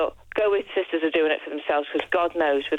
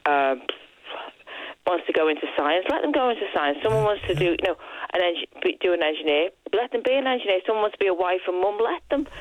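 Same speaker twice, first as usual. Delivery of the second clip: defiant anthem; 2 semitones higher than usual. Retold or imitated. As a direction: proclaim it like a rallying cry. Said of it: "And we went".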